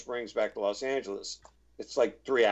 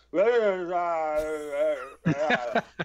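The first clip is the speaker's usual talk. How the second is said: imitating a strained, breathless noise; mock the wheezy sound he made; dehydrated sound; 5 semitones higher than usual. Makeup lady describing how the dehydrated actor sounded, a strained laugh-like wheeze. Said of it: "I sounded like this".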